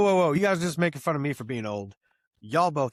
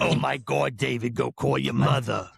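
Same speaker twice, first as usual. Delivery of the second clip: mock wife voice; 2 semitones lower than usual. Telling about the matching shirts, mock wife voice. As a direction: play the amused wife. Voicing his wife's reaction.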